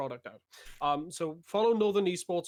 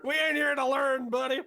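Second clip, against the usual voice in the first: higher, louder goofy gamer voice; mock dumb gamer; 9 semitones higher, 5 dB louder than usual. Co-caster mocking a gamer who won't learn words. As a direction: play a dumb gamer proudly refusing to learn.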